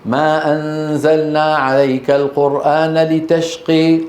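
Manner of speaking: slow recitation with لتشقي ending in a long "ee/ay"; imala vowels. Shown as a demonstration. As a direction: tilt the final aa of لتشقي toward ay. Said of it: "لو جاءه أحد يقول".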